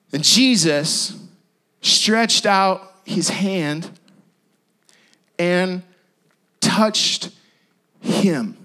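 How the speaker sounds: very slow, drawn-out telling. Shown as a demonstration. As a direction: stretch each word like a slow-motion shot. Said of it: "It goes to slow-mo here".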